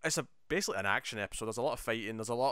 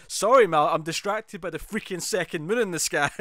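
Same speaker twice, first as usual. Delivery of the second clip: higher, louder mock outburst; exasperated retort; 7 semitones higher, 7 dB louder than usual. Bumblebee answers Mal's complaint about distraction, mock exasperation. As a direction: imitate a fed-up snap back, loud and raised. Acted squabble during a retelling.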